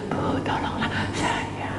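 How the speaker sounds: whispered, slow plea for help; husband begging the pastor, faint and slow; weak pleading whisper. Retold or imitated. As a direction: beg faintly, barely voiced. Weak broken voice described.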